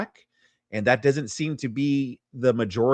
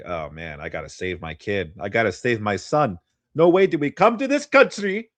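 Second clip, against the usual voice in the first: put-on Chilean accent; 3 semitones lower than usual. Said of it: "I don't know how to do a good Chilean accent".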